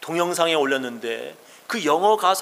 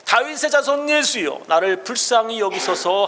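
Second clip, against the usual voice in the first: crying out; 5 semitones higher than usual. Acted. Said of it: "소리 질러 가로되".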